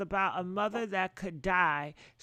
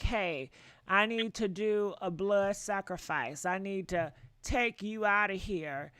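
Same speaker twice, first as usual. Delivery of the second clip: mock sacrificer; 3 semitones lower than usual. Voices friend planning a blood sacrifice.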